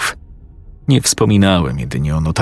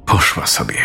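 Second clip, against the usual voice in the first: hushed whisper, barely voiced; 3 semitones lower, 3 dB quieter than usual. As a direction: whisper it so she won't hear. Whispered line in tense scene.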